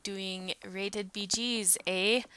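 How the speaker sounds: slow, drawn-out Canadian accent with a closing eh. Shown as a demonstration. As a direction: lay on the Canadian accent, ending on eh. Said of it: "that's my Canadian accent".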